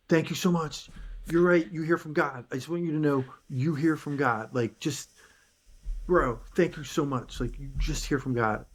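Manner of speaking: retelling an excited phone call; excited thanks. Retold or imitated. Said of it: "I get excited, especially when".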